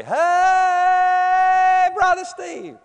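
high excited shout across the room; loud call. Retold or imitated. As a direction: call him out loud like an eager six-year-old. Kid calls out across church.

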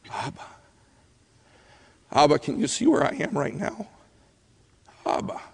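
soft, halting call to a father; intimate plea. Acted. Preacher voicing a child praying to Abba, softly pleading. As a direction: reach out quietly, as a child in need. Acts out a child calling God.

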